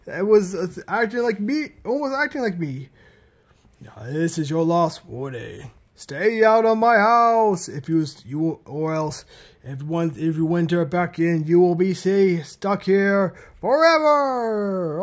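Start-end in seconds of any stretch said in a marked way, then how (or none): 3.8-15.0 slow, menacing ghostly warning; eerie threat, drawn out; unearthly voice. Acted. Ghost voice gives last warning.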